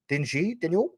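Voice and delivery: DIN YU lifted high in a questioning rise; said with emphasis. Shown as a demonstration. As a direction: draw attention to DIN YU with an upward swing. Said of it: "You gotta say it like that".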